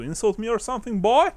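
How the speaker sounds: fast, rising Southern challenge; a Southern tough daring him to go on; southern accent. Acted. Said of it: "trying to do a southern accent".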